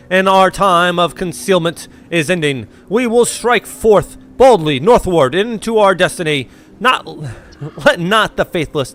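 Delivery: slow, solemn zealot's sermon; preaching cult prophet. Acted. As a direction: proclaim the holy march like a fanatic prophet. Voices the cult leader's sermon.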